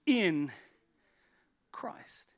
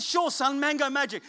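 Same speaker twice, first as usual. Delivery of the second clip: dad answering son; 2 semitones higher than usual. Retold or imitated. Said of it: "I said".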